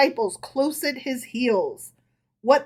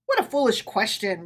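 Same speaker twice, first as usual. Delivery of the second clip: retort. Acted. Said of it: "retorted Herschel".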